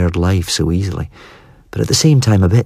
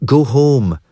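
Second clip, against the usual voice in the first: higher, firm go home; telling them off; 7 semitones higher than usual. A narrator's reading. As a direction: send them off firmly. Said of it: "she tells them".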